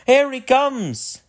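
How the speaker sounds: very high, loud, drawn-out shout; little boy shouting. Acted. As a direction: call out excitedly to everyone. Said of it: "a little boy shouted".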